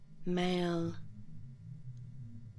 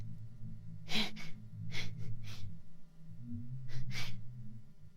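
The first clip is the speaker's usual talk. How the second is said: low, voiceless puffs of laughter; breathy laugh; 8 semitones lower than usual. Acted. Creature being touched by the human, breathy laughter.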